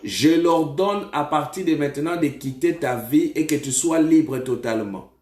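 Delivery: firm, emphatic command; deliverance preaching. Real, not acted. Prophet orders a spirit out of the caller, commanding preaching.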